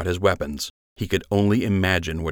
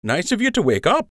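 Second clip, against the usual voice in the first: high, teasing smirk in the voice; smug; 13 semitones higher than usual. A narrator's reading. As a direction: needle him with a grin. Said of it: "Lund said with a smirk".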